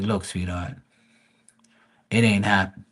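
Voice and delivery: a hint of a condescending smooth talker; mock gentle letdown. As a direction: let her down easy but firm. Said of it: "I was like".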